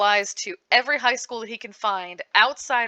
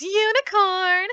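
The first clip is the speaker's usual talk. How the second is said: high, slow, louder triumphant cry; a haughty unicorn announcing herself; proud unicorn declaration; 12 semitones higher, 5 dB louder, much slower than usual. Retold or imitated. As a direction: drag it out grandly, full of herself. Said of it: "tosses her head and says".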